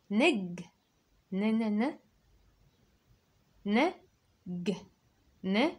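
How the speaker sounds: نج said apart, ن repeated; syllable drill. Shown as a demonstration. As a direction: repeat each sound separately. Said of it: "اسمع كمان". (تهجئة نج)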